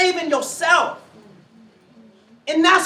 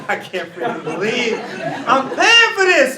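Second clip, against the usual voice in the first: giggling disbelief; 5 dB louder, slower than usual. Retold or imitated. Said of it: "giggle sometimes".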